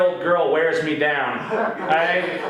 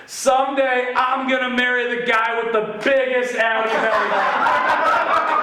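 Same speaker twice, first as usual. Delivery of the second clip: put-on higher, giggly little girl announcing her plan; little girl's dreamy voice; 5 semitones higher than usual. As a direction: voice the girl raised and sing-song, laughing through it. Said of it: "she goes".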